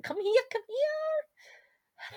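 high, slow, near-crying call; an aunt about to win bingo, calling out high and tearful; breathless excitement. Acted. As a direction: stretch it out, almost overcome. Bingo nearly won, calling.

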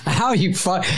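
high-pitched retold yelp of pain and anger; imitating a sharp cry after being stepped on; mock pained curse. Retelling how he cursed at Farley, high mock yelp. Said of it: "And I go".

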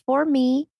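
imitating John's catchphrase. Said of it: "That's why he always says it".

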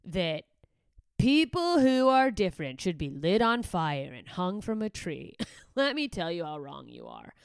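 slow, loud mock self-righteous lecture; mocking quote. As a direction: drag it out like a smug tweet. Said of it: "likes for being like".

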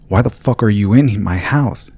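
angry shout at an intruder; yelled. Acted. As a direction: yell it in shock and rage. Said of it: "he yelled".

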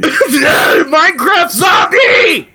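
slow, groaning zombie shout; Minecraft zombie. Pretend. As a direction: drag it out like a zombie. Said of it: "You sound like a Minecraft zombie".

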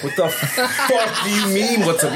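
high, loud outraged yell through a laugh; retelling his shocked yell at the roommate. Retold or imitated. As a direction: bellow in laughing disbelief at her. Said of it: "And I'm like".

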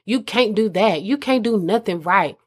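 belittling, lightly mocking tone; talking down. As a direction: sneer it down at her. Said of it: "in a manner that's letting me know".

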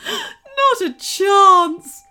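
loud, high villain cackle into words; cackling. A narrator's reading. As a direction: goblin queen cackling, words stretched out. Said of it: "she cackled".

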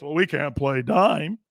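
drawn-out mock complaint, rising on "dime"; mock excuse. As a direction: drag out the excuse, mocking it. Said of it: "But you can't be doing this".

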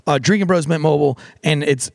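casual host-read sponsor ad. Acted. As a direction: sell the deal, upbeat.

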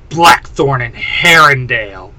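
venomous, hissed through the teeth. Acted. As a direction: hiss the names with contempt. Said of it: "Serena hisses".

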